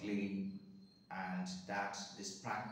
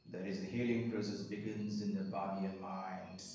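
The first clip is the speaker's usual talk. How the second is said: guided meditation. Real, not acted. Guiding listeners to observe breath and body, guided meditation. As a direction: lead the listener gently through breath and body.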